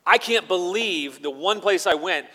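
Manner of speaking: loud, high amazed cry of wonder; Gideon amazed. Retold or imitated. Gideon realizing God arranged everything, loud amazed exclamation. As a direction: burst out in disbelief at God's timing. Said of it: "Gideon must have been impressed by".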